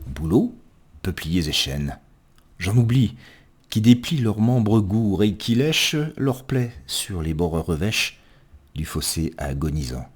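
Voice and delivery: measured verse reading with long pauses; poem recitation. Acted. Reader presenting a spring poem to listeners, measured poetic recitation.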